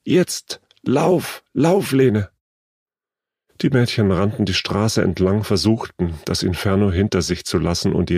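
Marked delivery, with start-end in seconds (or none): 0.0-2.3 high, urgent separate shouts; shrill cry. A narrator's reading. Older girl urges Lene to flee the planes, shrill cry. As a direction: call the signal to flee in bursts. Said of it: "rief sie schrill".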